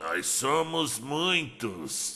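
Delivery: quiet, ominous, menacing, threatening voice. A narrator voices an unseen figure speaking to a fallen fighter: menacing voice. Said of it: "disse a voz ameaçadora".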